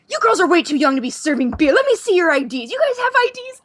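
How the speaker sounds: lightly imitated mock-stern ID check; Tom Hanks. Star walks over to tease the bar girls, mock stern. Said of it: "Tom Hanks walks over to us at the bar and goes".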